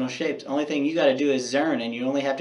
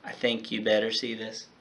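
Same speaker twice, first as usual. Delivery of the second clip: whisper; 2 semitones lower, 6 dB quieter than usual. Acted. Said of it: "she said in a whisper".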